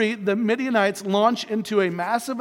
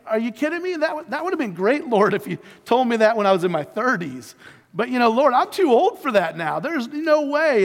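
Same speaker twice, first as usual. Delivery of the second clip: hammed-up incredulous objection, getting louder; mock incredulous; 3 semitones higher, 3 dB louder than usual. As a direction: protest to the Lord as if it's absurd. Acting Abraham's disbelieving reply.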